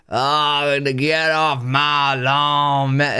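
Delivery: slow, slurred hick drawl; a lightly done old drunk yelling at kids; drunk Southern redneck. Retold or imitated. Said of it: "that character that comes in that's drunk".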